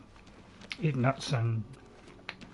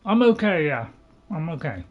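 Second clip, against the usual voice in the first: mouth full; 2 semitones higher, 4 dB louder than usual. Real, not acted. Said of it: "I'm just chewing".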